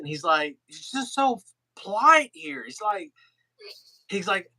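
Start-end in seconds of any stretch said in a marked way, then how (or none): 0.7-2.6 high-pitched imitated Irish accent. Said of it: "Ken was in his Irish accent".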